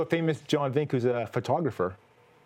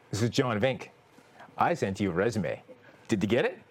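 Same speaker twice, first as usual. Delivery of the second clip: self on the phone; 7 semitones lower than usual. Retold or imitated. Host retells calling the bank about his resume in a low voice. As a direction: sound like a job seeker calling in. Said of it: "I said".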